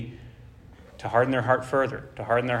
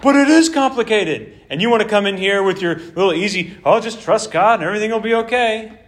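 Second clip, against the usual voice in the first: indignant retort; 4 semitones higher than usual. Acted. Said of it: "And they're saying".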